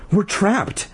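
high, acted wail; mock panicked cry. A narrator's reading. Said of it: "Ashley wailed".

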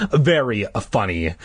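dry, unamused reply; sarcastic. Acted. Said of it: "I replied sarcastically".

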